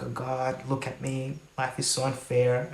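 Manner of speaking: a quiet, hammed-up sigh at life; mock dramatic. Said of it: "dramatic sometimes and just being like".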